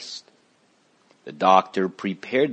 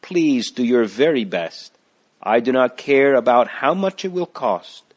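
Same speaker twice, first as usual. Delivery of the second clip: higher, louder pleading; begging; 4 semitones higher, 5 dB louder than usual. Acted. Christiana pleading with the doctor, begging. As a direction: press him to do his best. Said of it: "Christiana begged".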